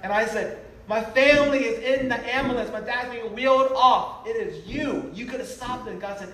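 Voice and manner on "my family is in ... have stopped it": raised, higher-pitched cry of accusation; mildly re-enacted shouting at God; strained retelling of an outburst; retold scream. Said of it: "I'm screaming this out loud".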